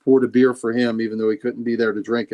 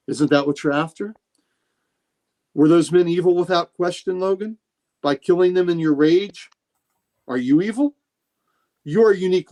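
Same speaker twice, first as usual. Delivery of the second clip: lightly acted priest, probing questions pitched up at first; Nightcrawler; 3 semitones higher than usual. Priest challenges his friend over killing in rage, lightly acted probing. Acts out Kurt questioning Logan.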